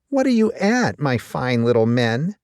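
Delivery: high sly cat question; a hint of a cunning pussycat; lightly voiced Miss Pussy. Pussy's voice in mouse song.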